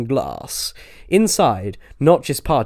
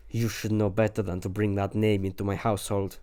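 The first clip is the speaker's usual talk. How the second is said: softer hoarse ominous Notch; 2 semitones lower, 6 dB quieter than usual. A narrator's reading. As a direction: rasp it out, shaken. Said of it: "He talked in a hoarse tone".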